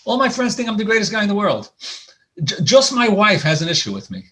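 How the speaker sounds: high-pitched, lightly acted complaint; imitated self-satisfied husband. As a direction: lightly imitate a husband protesting he's well liked. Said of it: "I've heard so many people say".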